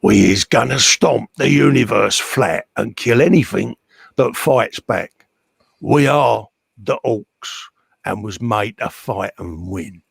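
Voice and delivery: stomp out each phrase with purpose, pausing between; purposeful orc war cry. Acted. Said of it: "Said with purpose".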